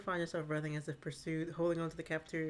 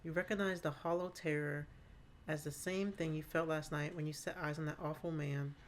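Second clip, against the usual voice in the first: story narration. A narrator's reading. GM scene narration.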